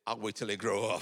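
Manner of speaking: loud, stubborn shout; joking defiant yell; mock refusal shout. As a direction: playfully refuse the Lord's advice. Refusing the Spirit's advice.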